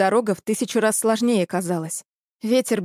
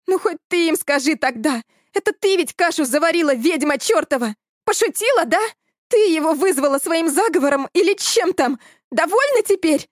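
higher, louder furious accusation; accusing outburst; 7 semitones higher, 3 dB louder than usual. A narrator's reading. Elya rounds on Sveta, shrill and furious. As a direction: hurl it at her like a curse.

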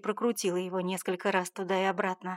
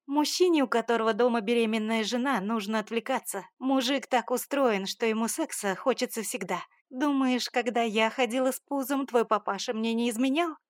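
higher, louder scornful lecture; mother cynically lecturing daughter; 3 semitones higher, 4 dB louder than usual. Acted. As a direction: sneer at her naivety.

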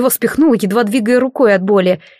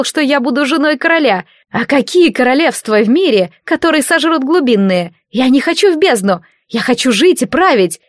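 desperate angry shouting; 4 semitones higher than usual. Acted. Karisha yells back at Riolas.

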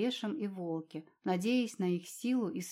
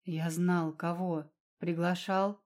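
angrier hiss; slower than usual. Acted. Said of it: "Ещё яростней прошипел архидемон".

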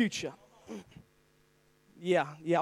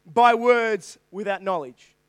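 slow, weighty voice of God reading; 4 dB louder, slower than usual. Acted. Preacher voicing God questioning Job, slow and weighty. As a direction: let each word land slow and heavy. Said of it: "And he says to Job".

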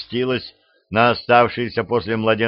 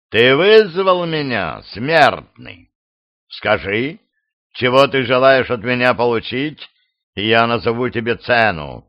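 commanding demon. Acted. Demon addresses summoner.

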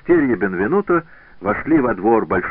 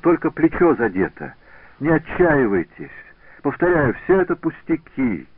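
higher, louder brushing it off; eager reassurance; 7 semitones higher, 3 dB louder than usual. A narrator's reading. Wounded pupil insisting to his master, eager reassurance. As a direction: insist it is nothing.

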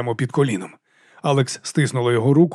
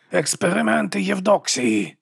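through teeth; 6 semitones higher, slower than usual. A narrator's reading. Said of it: "крізь зуби".

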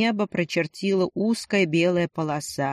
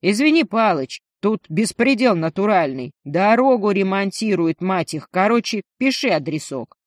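loud over the noise; 4 dB louder than usual. Acted. Lenchik amid road repair noise.

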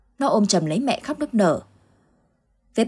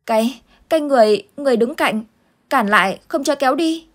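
put-on higher, scared child voice; a small boy still shaken by the nightmare; frightened little boy; 6 semitones higher than usual. Boy answering Uncle Tư about the dark figures, frightened child voice. Boy's voice held.

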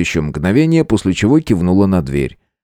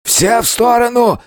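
bandit shouting. Acted. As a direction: bark it at the soldiers to clear off. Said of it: "кричал бывший пленник".

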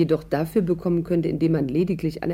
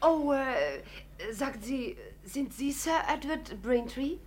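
put-on American wife; 6 semitones higher, 9 dB quieter, much slower than usual. Celia plays American wife at door.

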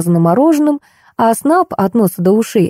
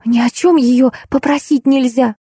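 higher-pitched mild annoyance; irritated; 5 semitones higher than usual. A narrator's reading. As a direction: complain with a touch of irritation. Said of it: "раздражённый Зайкин и тихий Аркашкин". (лёгкое раздражение, повыше голосом)

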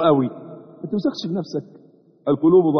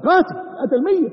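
emphatic exclamation; 10 semitones higher than usual. Acted. Preacher hammering the killer image.

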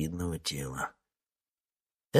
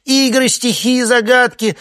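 much higher, louder relieved cry; relieved wail; 12 dB louder than usual. Acted. The coordinator, relieved, hollering the plan at the actors. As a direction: belt it out in relief. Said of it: "заголосила координаторша".

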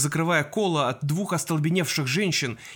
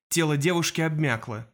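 ordinary delivery

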